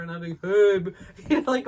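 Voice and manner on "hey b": doll voice. Retold or imitated. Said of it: "when I was kid".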